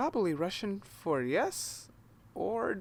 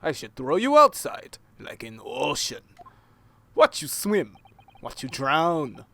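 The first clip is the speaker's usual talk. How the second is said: menacing sailor; 2 semitones lower, 6 dB louder than usual. Acted. Sailor threatens.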